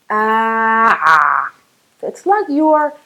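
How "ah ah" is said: "Ah" squeezed from the throat; choked ayn sound. Shown as a demonstration. Teacher showing students the ayn, throat tightened. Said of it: "choke yourself".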